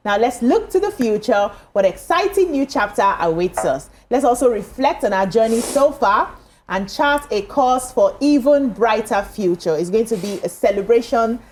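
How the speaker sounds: upbeat presenter's anniversary intro; TV show opening. Acted. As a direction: welcome viewers with a lilting, celebratory read. Presenter reads the show's opening.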